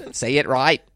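prim French waiter correction. Retold or imitated. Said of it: "doing the waiter".

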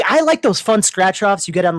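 ordinary talk, nothing marked

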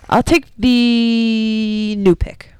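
slow breathy whisper. Pretend. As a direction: whisper it slowly like a secret. Slow whispered mock announcement.

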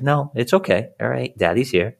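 calm her down like a steady father; calm reassurance. Retold or imitated. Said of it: "stay as calm as I can be".

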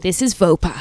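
low, measured radio presenter voice; Radio Woman. Acted. Co-host doing her Radio Woman on request, presenter voice. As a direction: introduce the segment like a woman on radio. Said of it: "Do you want me to do my Radio Woman?".

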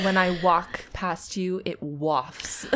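slow, lingering mock yoga girl. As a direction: drift through it, parodying a yoga girl. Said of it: "little blonde girls that do yoga that are like".

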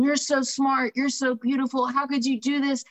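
half-hearted retold scolding yell. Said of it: "he's yelling at me".

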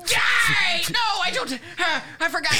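put-on high, loud, strained old villain; Palpatine voice. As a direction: screech it like the Emperor. Palpatine voice bit.

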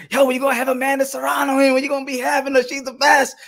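eager fans. Retold or imitated. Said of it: "People be like".

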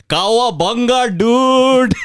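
high, loud, slow surfer dude voice; surfer dude dad. Retold or imitated. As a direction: play a dad trying to sound cool. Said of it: "my Indian father in the nineties would have come up to me and be like".

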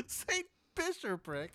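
slow, high, through laughter; laughing disbelief. Real, not acted. Player repeating the butler's silly name, laughing. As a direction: repeat it while cracking up.

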